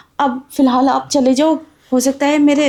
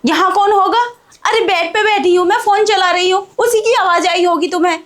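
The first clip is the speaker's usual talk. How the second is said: higher, indignant brush-off; defensive denial; 5 semitones higher than usual. Acted. Bahu covering up to her suspicious father-in-law, indignant. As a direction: act offended to cover up. Bahu denies anyone is there.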